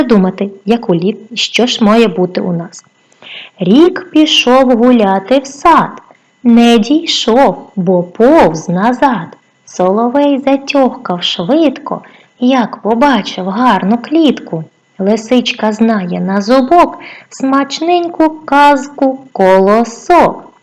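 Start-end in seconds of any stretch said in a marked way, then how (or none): 3.6-5.9 "Рік пішов гуляти в сад" read slowly and evenly, falling on "сад"; slow verse line with a falling end on "сад"; slow poem reading. Shown as a demonstration. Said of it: "Невже діти рік пішов гуляти в сад?". 6.4-20.5 put-on slow, measured reading of a children's poem; slow storytelling recitation for young pupils. Shown as a demonstration. Teacher reads a joke poem.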